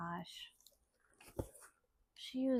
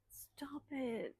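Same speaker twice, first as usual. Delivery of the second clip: breathy whisper, touched; whispered stop it; 2 semitones higher, 10 dB quieter than usual. Real, not acted. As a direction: whisper it as if moved by the note. Touched by friend's note.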